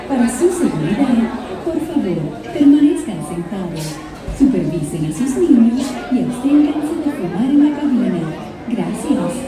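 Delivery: Spanish PA announcement over speakers; calm, measured safety message in Spanish; recorded announcement. Real, not acted.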